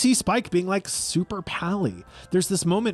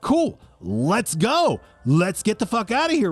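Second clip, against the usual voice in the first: imitating fake Spike; 4 semitones higher than usual. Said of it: "he's like".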